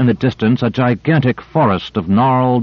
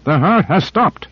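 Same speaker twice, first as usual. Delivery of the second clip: higher, slow stunned cry; awed cry; 7 semitones higher than usual. A narrator's reading. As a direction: let the shock land slowly. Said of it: "he cried".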